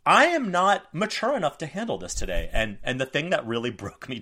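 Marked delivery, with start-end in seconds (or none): 0.1-2.5 high, loud overwhelmed whine; exasperated parent. Retold or imitated. Parent telling the crying toddler, overwhelmed high whine. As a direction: throw up your hands, at the end of your rope. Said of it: "And I'm like".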